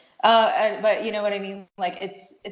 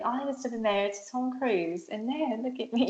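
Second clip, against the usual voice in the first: weak Nicole Kidman impression; 4 semitones higher, 5 dB quieter than usual. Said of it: "I can't do it that well".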